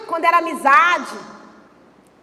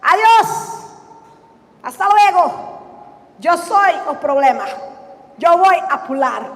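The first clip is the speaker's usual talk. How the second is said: fake Spanish. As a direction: ham up a Spanish goodbye. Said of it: "Ele não podia ter chegado e falado assim". (Jonas se despedindo num espanhol debochado)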